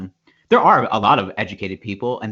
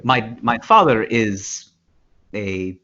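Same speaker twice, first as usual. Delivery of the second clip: unemotional mock Russian; 4 semitones lower than usual. Russian worker indifferent to his father, unemotional mock Russian accent. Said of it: "so his emotions are very, like, they're very low".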